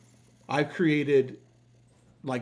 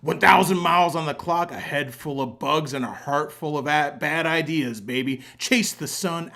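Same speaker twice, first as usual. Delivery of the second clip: loud, pumped-up biker read; hyped biker voice; 5 dB louder than usual. Acted. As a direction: read it like a rowdy Florida biker. Reads out the AI biker caption.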